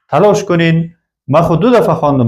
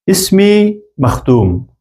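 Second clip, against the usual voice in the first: slow model phrase; 3 semitones higher, slower than usual. Shown as a demonstration. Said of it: "شما کوشش کنین پیش خود جواب بتین".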